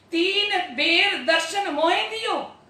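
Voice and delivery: lilting scripture verse; verse recitation. Real, not acted. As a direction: intone the line in a singsong cadence. Reciting scripture verse between explanations.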